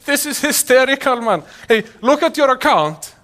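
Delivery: imitating an excited friend phoning up; excited caller. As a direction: call out like a friend with hilarious news. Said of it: "just called me up like".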